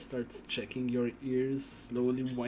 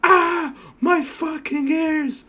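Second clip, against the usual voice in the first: high, full-volume scream of agony; screaming in pain; 12 dB louder, much slower than usual. Acted. Game master plays Crow in the background with bleeding ears, screaming in pain. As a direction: scream it out loud, drawn-out and high. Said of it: "you can just see Crow in the background".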